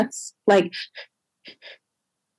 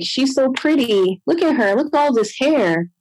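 put-on cooing over baby; 5 semitones higher than usual. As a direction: gush sweetly about the baby girl. Staff admiring newborn.

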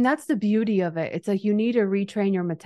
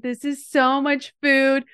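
panicky client; 5 semitones higher, 3 dB louder, slower than usual. Retold or imitated. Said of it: "She was freaking out".

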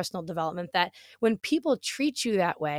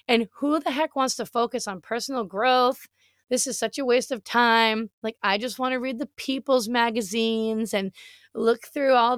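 mocking her old self. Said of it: "This is my naive little brain".

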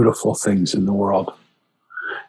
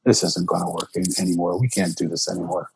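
loving plea; 2 semitones lower than usual. Retold or imitated. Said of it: "with all the love in my heart".

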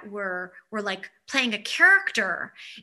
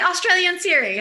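amused; 9 semitones higher, 6 dB louder than usual. Real, not acted. Repeats name, laughing.

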